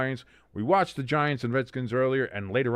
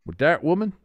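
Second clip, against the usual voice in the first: Bill Clinton impression; 4 semitones higher than usual. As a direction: quote Clinton's famous denial. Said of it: "doing the Bill Clinton".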